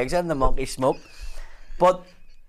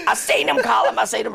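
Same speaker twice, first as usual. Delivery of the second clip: imitating exasperated mother; 5 semitones higher, 3 dB louder than usual. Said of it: "she was like".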